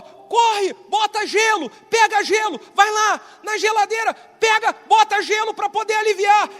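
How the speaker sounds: high, loud panicked orders; mother yelling to fetch ice; wife's urgent shout. Retold or imitated. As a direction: shout the instructions in a hurry. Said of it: "minha esposa gritou".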